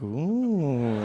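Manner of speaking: long, swelling "ooh"; mock-awed cooing; impressed ooh. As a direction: react with drawn-out intrigue. Acted impressed reaction to the riddle.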